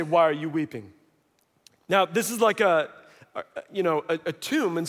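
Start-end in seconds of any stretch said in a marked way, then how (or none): 0.0-0.9 lower-pitched, gentle question with falling end; somebody else's voice. Retold or imitated. Jesus asking weeping Mary from behind, in a lower voice. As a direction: ask it lower, as a second speaker. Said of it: "she hears somebody else say".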